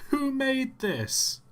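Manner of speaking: slow high disbelief; disbelieving. Real, not acted. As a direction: ask in stunned disbelief. Repeated disbelief at model.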